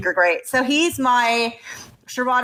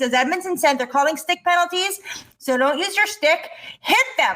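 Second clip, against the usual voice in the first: mock rant. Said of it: "And scene".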